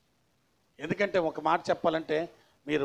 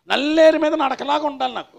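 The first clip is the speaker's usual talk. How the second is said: high, loud mimicked insistence; mock believer's demand; 10 semitones higher, 11 dB louder than usual. Preacher imitates believer wanting an easy path, in a mock demand. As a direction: play up the entitled wish, high and loud.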